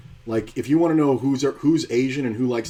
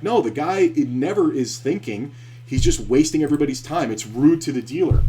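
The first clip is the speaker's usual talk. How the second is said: mock ranting yell, a bit louder and higher; retold yelling; 5 semitones higher, 5 dB louder than usual. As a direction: vent at the floor man, half yelling. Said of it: "I just kept fucking yelling at him".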